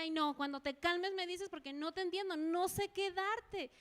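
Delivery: exasperated mother. Retold or imitated. Mother telling crying child to calm down, exasperated. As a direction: plead it, slowing on the last words.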